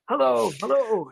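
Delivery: high, sing-out mock hello; calling for attention. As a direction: imitate someone hailing a person ignoring them. Voices ignored man trying for attention.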